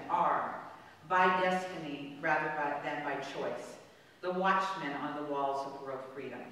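formal oratory read with rising force on key lines; reading Kennedy's speech aloud. Shown as a demonstration. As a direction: deliver it like a presidential address, building in volume. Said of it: "this was on a plaque that I saw".

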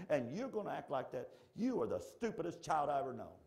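scolding with a touch of anger; mad Jesus. Acted. Imagined Jesus scolding his child, mildly angry. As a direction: wind the rant down into a mild scold. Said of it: "What if he got so mad?".

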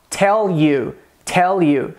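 "tell you" with a dark American L; American accent. Shown as a demonstration. Teacher contrasting with Indian English, American accent. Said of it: "No inglês americano".

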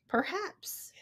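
breathy unvoiced whisper; soft conspiratorial whisper. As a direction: hush it, secretive. Whispered line in story.

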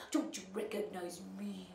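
soft unvoiced whisper. Godmother to Ellie, in a whisper. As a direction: breathe it secretly.

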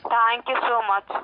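breathless and slow; panting between words; out of breath. Real, not acted. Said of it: "You sound like you're out of breath".

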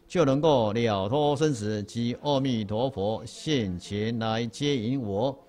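slow, measured text recitation; reading aloud together. Shown as a demonstration. Teacher leads the group reading, slow and measured. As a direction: read it out word by word with the class. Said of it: "这两个一起念一下哈。".

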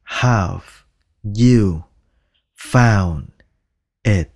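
"Have", "you", "found", "it" said slowly, word by word; full careful form. Shown as a demonstration. Teacher giving the proper full form word by word. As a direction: say every word of the full question. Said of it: "Đáng lẽ ra phải đọc là".

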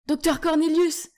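high, loud happy shout; joyful cry. Acted. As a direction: greet an old friend with delight. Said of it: "s'écria Caspian avec joie".

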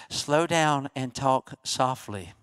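slow, low, hushed self-reminder; calm and soft. Acted. Pastor reminding himself to calm down, soft and slow. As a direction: talk softly and very slowly. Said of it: "talk so calmly".

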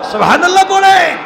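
high, loud shout to the crowd; loud call. Real, not acted. Preacher calling on the congregation, loud high shout. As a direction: rouse them to answer.

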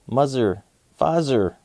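buzzy fly talk. Acted. Fly Guy names his drawings, buzzy fly voice. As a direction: buzz the words like a little fly.

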